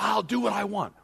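high, loud, stubborn retort; acted defiance. King answering the priests back, acted defiance. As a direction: play a king who refuses to be told.

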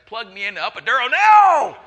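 loud, high, desperate demand; yelling wife in labor. Retold or imitated. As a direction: shout it like a woman mid-labor.

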